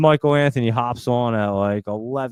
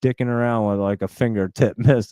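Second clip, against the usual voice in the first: exasperated rant. Retold or imitated. Retelling his frustration at hospital.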